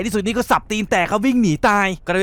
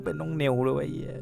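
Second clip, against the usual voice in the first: much softer, lower groan of dismay; 4 semitones lower, 10 dB quieter than usual. Real, not acted. Narrator gutted by the girl's fate, groaning much softer. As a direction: let it sink out of you, gutted. Narrator upset at tragic scene.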